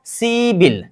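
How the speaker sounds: सीबिल run together, p turned into b; सीबिल as one linked word, see-bil; linked pronunciation. Shown as a demonstration. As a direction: say सीबिल joined, with a b sound. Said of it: "उच्चारण कीजिए".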